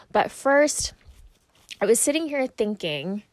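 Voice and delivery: talking around a swallow; swallowing mid sentence, dry mouth. Real, not acted. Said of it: "sorry if you hear me swallowing all the time".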